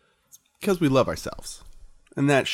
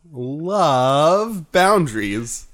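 whisper; much slower than usual. Pretend. Seductive motto whisper.

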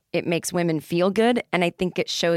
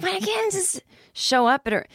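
high-pitched mock panic; retold panic; 13 semitones higher than usual. Retold panicked reaction to instructions.

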